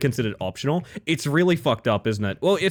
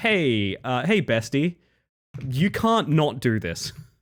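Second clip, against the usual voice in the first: pushy, pressing, slow, aggressive insistence. Retelling how the dentist pressed a tooth pulling: imitating being aggressively told. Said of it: "I was being pretty aggressively told".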